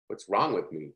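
soft disappointed self-question; muttered self-doubt. Retold or imitated. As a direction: ask it under your breath, let down. Frustrated self-talk while timing breath.

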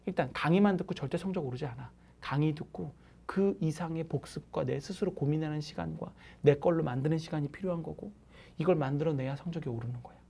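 ordinary talk

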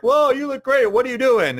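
imitating friends who see the weight loss, thrilled; amazed friends. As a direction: gush like a stunned friend.

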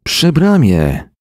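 high, slow alarmed reply; urgent answer. A narrator's reading. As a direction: call out the place in alarm.

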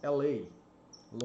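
"she lives in L A" spoken slowly, word by word, short vowel in "lives"; slow model sentence. Shown as a demonstration. Teacher dictating the example for students, very slow. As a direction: spell it out slowly for learners. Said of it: "ela mora".

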